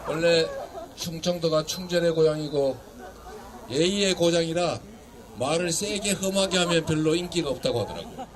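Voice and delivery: low, easy conversational voice; done shouting, restrained. Real, not acted. Politician easing off for courteous Chungcheong locals, low and restrained. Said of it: "소리 지르는 건 그만하고".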